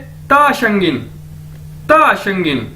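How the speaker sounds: ता शंगिन said clearly, the ता falling; model phrase. Shown as a demonstration. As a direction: repeat ता शंगिन as a phrase to copy. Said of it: "तो हम कैसे कहेंगे उसे चाइनीज में?".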